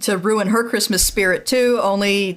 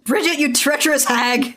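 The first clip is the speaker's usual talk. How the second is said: dramatic accusation; 5 semitones higher than usual. Pretend.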